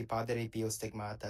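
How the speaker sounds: Italian-style rolled r in Padre Pio Stigmata; put-on Italian accent. Real, not acted. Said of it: "you're not talking like that when you say any other word".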